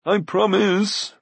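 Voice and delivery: high, slow whining plea; wheedling high voice; pleading Glue. A narrator's reading. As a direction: beg to be believed. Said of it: "pleaded Glue".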